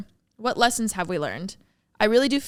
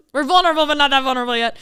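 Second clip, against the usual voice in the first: laughing; 5 semitones higher, 7 dB louder, much faster than usual. Real, not acted. Laughing off a deep topic.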